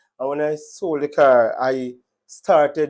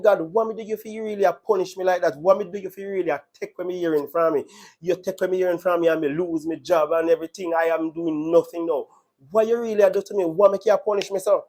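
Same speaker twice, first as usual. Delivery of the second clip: retold anguished railing; 3 semitones higher, faster than usual. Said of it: "I was cursing God".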